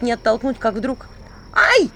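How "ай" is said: резкий высокий громкий «ай»; заори от боли; вскрик от боли. A narrator's reading. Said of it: "заорал князь". (князь орёт от укуса, громко и высоко)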